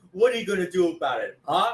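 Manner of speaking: lightly voiced challenge, imitating a wrestler; Kevin Nash. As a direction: goad them in a put-on voice. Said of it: "remember, uh, Kevin Nash?".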